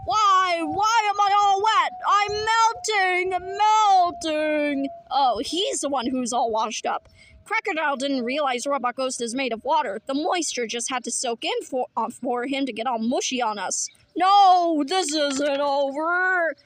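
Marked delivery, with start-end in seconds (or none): 0.1-4.9 loud, high panicked cries; panicked wail. Acted. Villain melting in the water, panicked wail. 14.2-16.5 defiant shout. Acted. Villain's defiant last cry.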